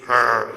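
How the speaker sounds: low growled mock bark; imitated bark. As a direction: imitate someone barking like a dog. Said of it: "So she barks at me".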